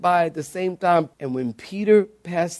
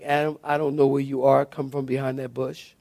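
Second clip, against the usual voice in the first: softer, fading as if truly not knowing; soft wrong reading; 3 semitones lower, 5 dB quieter than usual. Shown as a demonstration. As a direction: ask like you've lost him.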